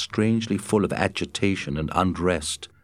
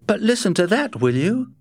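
higher, struck Matt voice; 13 semitones higher, 4 dB louder than usual. A narrator's reading. Matt stopping Scott at the howling, higher and struck. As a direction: sound caught by the howl. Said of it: "Matt answered".

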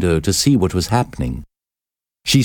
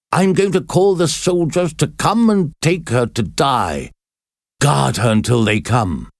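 higher, raised commanding call; 5 semitones higher than usual. A narrator's reading. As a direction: call out orders to the recluse. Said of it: "He called out".

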